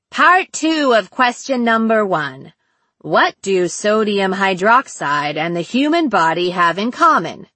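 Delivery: swooping, playful quiz delivery; sing-song quizmaster. Acted. Captor posing part two to his captive, playful sing-song. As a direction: toy with each phrase of the question.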